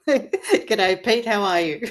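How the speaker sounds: playful, lightly exaggerated Australian greeting; jokey broad Australian hello; best Australian accent. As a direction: ham up an Australian accent a little. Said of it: "In my best Australian accent".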